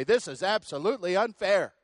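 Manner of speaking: loud, high, indignant protest; mock complaint, pitched high and loud; self-righteous protest. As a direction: rise up in wounded self-righteous outrage. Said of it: "rise up so self-righteously and say".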